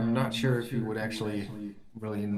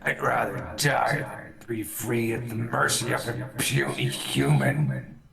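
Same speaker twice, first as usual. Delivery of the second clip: spiteful bugbear; 2 semitones higher than usual. Acted. Bugbear refuses mercy from his captor, spiteful and defiant. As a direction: spit the words out, sinking on the last. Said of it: "He spits at you and he's like".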